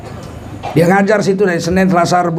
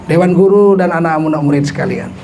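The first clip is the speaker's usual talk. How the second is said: mock speech. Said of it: "kepala sekolah pidato".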